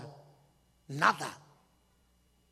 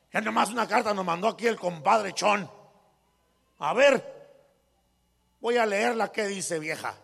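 swaggering rich man. Retold or imitated. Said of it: "hablaba así hasta con garbo".

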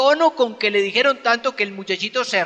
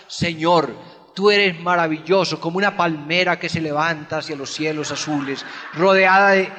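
lightly voiced lofty prayer, a little lower; mock flowery prayer; 4 semitones lower than usual. Preacher mocking ornate prayer to the Lord, lightly lofty. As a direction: mimic a grand poetic prayer, understated. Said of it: "no, de eso no se trata".

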